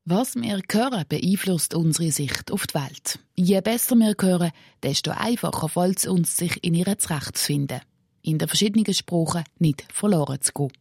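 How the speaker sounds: measured radio-feature voice-over; scripted report narration. A narrator's reading. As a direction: read the script to listeners, clearly phrased.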